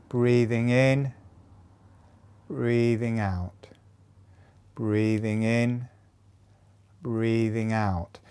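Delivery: slow, evenly paced breathing count; unhurried cue with long pauses. Shown as a demonstration. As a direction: draw each phrase out to pace the breath. Paces a breathing movement demonstration.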